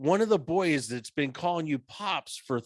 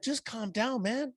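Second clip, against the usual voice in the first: calming self down; 6 semitones higher than usual. Retold or imitated. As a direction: re-enact talking yourself down gently. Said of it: "I'm trying to calm myself down".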